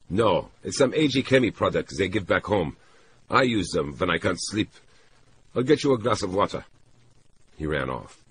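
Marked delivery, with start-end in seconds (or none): 0.1-6.6 lightly voiced man explaining himself; a hint of a brisk, helpful man; man reassuring her. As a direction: explain it readily, a little raised, then hurry off. Narrator voices man explaining pills.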